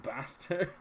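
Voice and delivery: drawn-out Scottish movie-character voice; Fat Bastard. Acted. Streamer has Austin Powers flashbacks, drawn-out Scottish impression. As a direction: stretch it out in a comic Scottish accent. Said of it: "Just had Austin Powers flashbacks".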